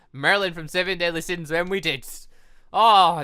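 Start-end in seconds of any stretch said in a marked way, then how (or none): 2.7-3.2 loud delighted oh; excited gasp. Real, not acted. Gamer imagining a dream outfit, loud delighted oh. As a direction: burst out with delight.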